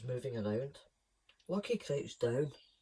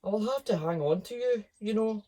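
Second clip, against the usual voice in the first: parrot voice; 8 semitones higher, 6 dB louder than usual. Acted. Peck insisting.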